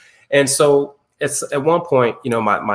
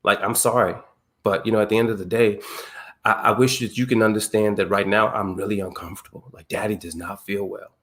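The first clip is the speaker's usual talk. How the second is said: soft apology; 2 semitones lower, 4 dB quieter than usual. Retold or imitated. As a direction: ease it down like a tender dad. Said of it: "I just had to say".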